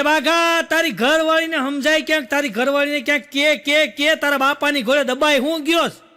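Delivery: mock heated scolding of a son; acted mother's angry telling-off; mother losing her temper. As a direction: scold hard, hammering the repeated words. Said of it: "બાઘાના બા ગરમ થઈ ગયા".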